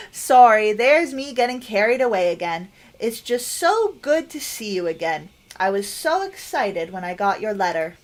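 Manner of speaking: lightly voiced doting nana, pleased; fond grandmother. Game player voices Nana welcoming a grandchild, lightly acted fondness. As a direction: lean on "so" like a delighted nana.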